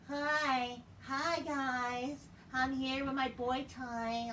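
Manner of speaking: high, drawn-out mock greeting; sing-song high-pitched mockery; mocking impression of a wrestler. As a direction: stretch it out in a high put-on voice.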